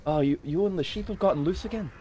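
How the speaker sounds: unsure, put-on Welsh accent; attempted Welsh accent. Shown as a demonstration. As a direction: have a go at a stereotypical Welsh lilt. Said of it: "how do you do a Welsh accent?".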